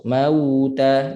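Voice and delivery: "Mauta" with a long w through a narrow lip opening; rounded waw. Shown as a demonstration. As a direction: pout tightly on the w of "Mauta". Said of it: "ruang di antara dua bibir sempit". ("Mauta" bibir sempit pada waw)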